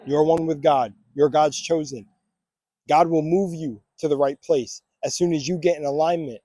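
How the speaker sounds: steady, deliberate affirmations; affirmation reading. Acted. Vlogger leading viewers through affirmations, steady and declarative. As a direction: declare each one with calm conviction.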